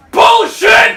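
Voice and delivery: high, explosive American shout; mock American accent. American rejecting comic's answer, shouted mock American accent. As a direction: blast out American disbelief. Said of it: "An American came up, he was like".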